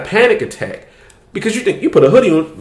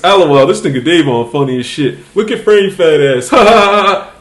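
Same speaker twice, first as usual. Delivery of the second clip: louder, higher jeering troll voices with cackles; mocking online trolls; 5 semitones higher, 4 dB louder than usual. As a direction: jeer like a pile of hateful commenters. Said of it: "it started off with a few niggas".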